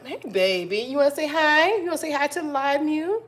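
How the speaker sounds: cooing at her cat mid-livestream. Real, not acted. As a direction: coo at the cat like a pet owner. Talking to her cat on live.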